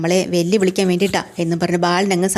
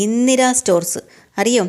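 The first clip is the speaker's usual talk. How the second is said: ordinary talk, nothing marked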